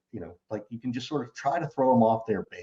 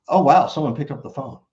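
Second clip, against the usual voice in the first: surprised, louder, playful; mock surprise; 3 semitones higher, 5 dB louder than usual. Shown as a demonstration. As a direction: act amazed someone picked up. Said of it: "I love that".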